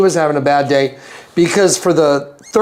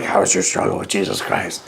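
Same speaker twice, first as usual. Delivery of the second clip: much lower, softer demonic growl; 11 semitones lower, 6 dB quieter than usual. Retold or imitated. The possessed woman on the bus, low demonic growl.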